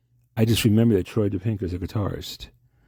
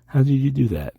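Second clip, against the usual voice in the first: raised, astonished demand; amazed, louder and higher; 6 semitones higher, 4 dB louder than usual. Acted. Caller demands to know how the mystery man did it. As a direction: press him, louder and higher, for an answer. Stunned at the phone trick.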